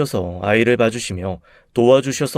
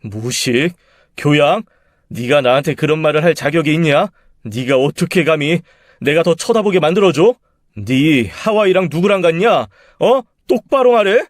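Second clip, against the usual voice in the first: higher, louder furious yelling; furious confrontation; 4 semitones higher, 3 dB louder than usual. Acted. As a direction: demand the truth, shouting. Husband confronts wife. (하와이 일을 따지며 고함치는 남편)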